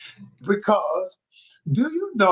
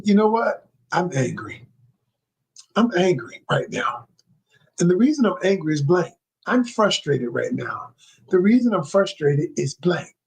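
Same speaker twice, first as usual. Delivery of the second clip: calm stating of feelings. Shown as a demonstration. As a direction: model a calm, even report of the emotion. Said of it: "you don't show what you're feeling".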